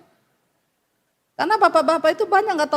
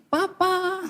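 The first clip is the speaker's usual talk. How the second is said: sweet wife greeting; 2 semitones higher, 6 dB quieter than usual. Pretend. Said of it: "istrimu sudah begini".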